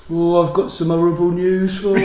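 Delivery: a hint of a Midlands accent on a doctor; mock Midlands doctor. Imagining a Midlands doctor giving bad news, mock Midlands accent. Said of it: "your doctor comes in and goes".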